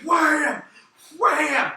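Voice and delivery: loud, high impact shouts; imitated chair hits. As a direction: punch out each hit as a high shout.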